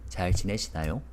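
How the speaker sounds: 지내시나요 rising at the end; rising question. Shown as a demonstration. Teacher demonstrating the polite question to students. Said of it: "That's the ending we put".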